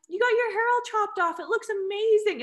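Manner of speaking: high-pitched gushing admiration; excited compliment. Retold or imitated. Customer to woman at post office about haircut, gushing.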